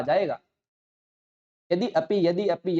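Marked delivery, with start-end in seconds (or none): 1.7-2.8 यदि अपि said again and again, drawing the words together; repeated drill. Shown as a demonstration. Teacher drilling the words toward यद्यपि. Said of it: "यदि अपि ऐसा बोलना प्रारंभ करोगे".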